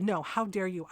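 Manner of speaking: firm, indignant throwing-back, stress on YOU; retold angry retort. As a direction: turn the accusation back on her, firmly. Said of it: "I got really fucking mad".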